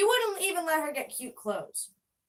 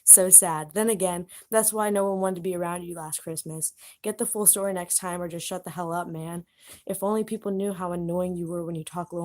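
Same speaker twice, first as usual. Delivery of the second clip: bratty; 6 semitones lower than usual. Retold or imitated. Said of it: "I was like".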